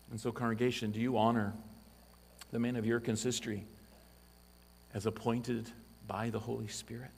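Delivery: ordinary talk, nothing marked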